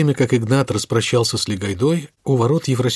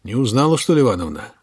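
strangled croak. Acted. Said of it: "каким-то сдавленным клёкотом произнёс".

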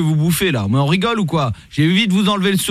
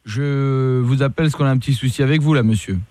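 lightly voiced lower police commissioner; stern police officer; 4 semitones lower than usual. Host posing as police commissioner calling the rapper, stern. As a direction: play a stern cop on the phone. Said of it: "Je suis le commissaire Latour".

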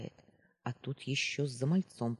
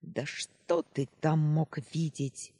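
slow, scornful question; sentry sneering at the boy's claim; contemptuous drawl; 2 semitones higher, 4 dB louder, slower than usual. Acted. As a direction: stretch it out with disdain. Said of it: "презрительно протянул часовой".

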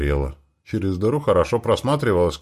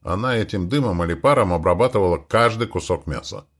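plain reading voice

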